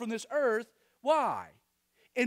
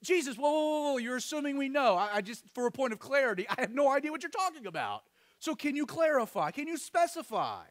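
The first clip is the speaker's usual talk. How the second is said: higher, faster, baffled asking; confused disciple speaking up; 4 semitones higher, 3 dB louder, faster than usual. Acted. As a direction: blurt it out, puzzled and pressing. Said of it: "he voices up".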